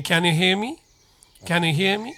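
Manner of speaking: "Can you hear me" with "can you" as "kanyu"; linked pronunciation. Shown as a demonstration. Teacher models the correct "Can you hear me", linked. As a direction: run "Can you" together, rising at the end. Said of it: "となります".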